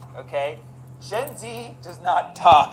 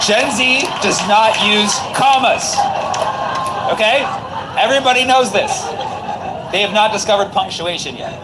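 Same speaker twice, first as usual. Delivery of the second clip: loud, high-pitched, emphatic insistence; mock exasperation; 6 semitones higher, 6 dB louder than usual. Real, not acted. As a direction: insist loudly, as if it were utterly obvious. Mock outrage at implausible texts.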